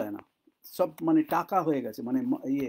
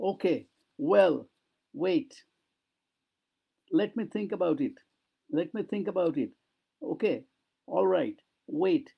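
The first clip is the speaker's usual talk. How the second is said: acted hesitation; much slower than usual. Shown as a demonstration. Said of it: "এই যে কথাগুলো, এগুলো যত বলতে পারবে".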